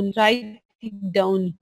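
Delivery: very slow, each word drawn out for note-taking; dictating at a crawl; slow dictation. Shown as a demonstration. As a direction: spell it out slowly so they can write. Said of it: "तो आप साथ साथ लिख लो".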